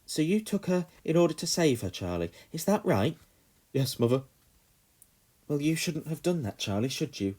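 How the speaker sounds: mother comforting while questioning; gently stern. A narrator's reading. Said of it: "trying to reassure and comfort him".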